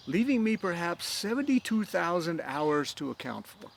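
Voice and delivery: lightly voiced proud young fencer tallying hours; Inigo voice. Held Inigo figure voice.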